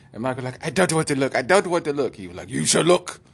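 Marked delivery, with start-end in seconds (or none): 0.7-2.2 mock refusal. Malcolm refuses. 2.5-3.2 mock command. Doctor commands.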